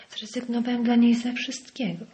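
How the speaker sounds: hot-tempered, hurled out; impetuous outburst. Acted. Henry bursting out about his wife, hot-tempered. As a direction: fling it out in a temper. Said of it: "Rzucił porywczo Henry".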